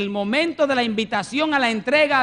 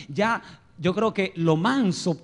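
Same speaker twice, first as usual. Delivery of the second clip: ordinary talk, nothing marked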